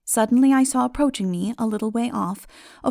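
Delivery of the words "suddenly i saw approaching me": usual speaking voice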